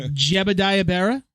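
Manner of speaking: slow, careful "Jebediah Berra"; careful name pronunciation. Real, not acted. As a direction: take your time saying "Jebediah Berra". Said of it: "gonna get his name right this time".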